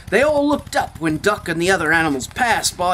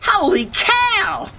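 drawn-out shout; 13 semitones higher, slower than usual. A narrator's reading. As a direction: bellow it in amazement. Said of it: "what he thought was".

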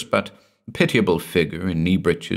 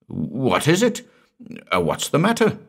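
high, urgent questioning; startled demand to know; 8 semitones higher than usual. A narrator's reading. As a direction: demand an answer, pitch lifted. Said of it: "demanded Malcolm".

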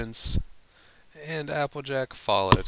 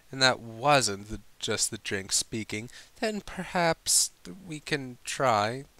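halting voice; 3 semitones higher than usual. Acted. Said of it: "voice halting slightly".

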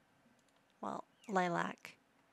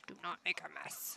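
whisper; 4 semitones lower than usual. Acted. Whispered scolding of game kid.

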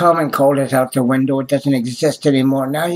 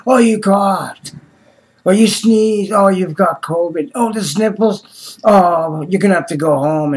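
mocking clinic staff; 4 semitones higher than usual. Vlogger mocks clinic staff who panic over a cough, with a sneer. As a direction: send up the nervous staff with a sneer.

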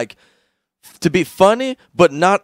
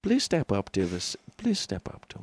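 put-on German accent going Indian; 11 dB quieter than usual. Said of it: "my German goes Indian".

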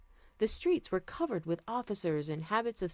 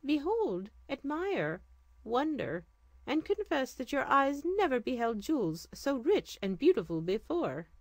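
higher, stately king's voice; regal sultan; 6 semitones higher than usual. Acted. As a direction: speak as a gracious sultan. Sultan shows jewels to vizier.

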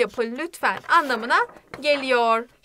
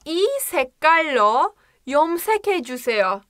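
fluent fast model; much faster than usual. Shown as a demonstration. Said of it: "Diyorum ki".

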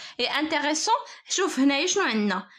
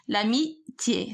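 slow dictation; 3 semitones lower, slower than usual. Shown as a demonstration. Teacher repeats word while writing.

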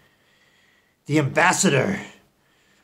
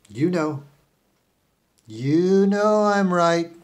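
Elon Musk. Acted. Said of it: "I'm speaking in a disguised voice".

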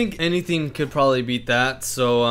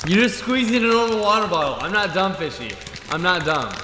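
raised, high accusation; exasperated, getting higher; indignant protest; 5 semitones higher than usual. Real, not acted. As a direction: call out the cheat, pitch climbing. Protests that friend cheated at impression.

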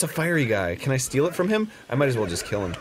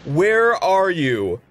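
pervy ghost hunter; 8 semitones higher, 3 dB louder, slower than usual. Retold or imitated. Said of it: "He's just like".

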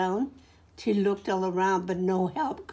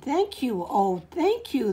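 grateful cry; 4 semitones higher than usual. Acted. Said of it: "the grateful witch cried".

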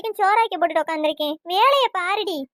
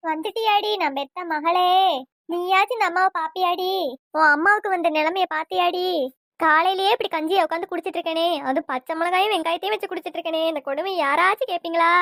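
melodramatic wailing; 2 semitones lower than usual. Acted. Mother complaining to her daughter about her miserable breakfast, wailing lament. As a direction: wail as if someone had died. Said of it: "செத்தே போன மாதிரி அழுதுட்டு கிடக்க".

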